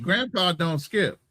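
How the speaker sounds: firm grandpa. Retold or imitated. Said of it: "I'll tell my granddaughter".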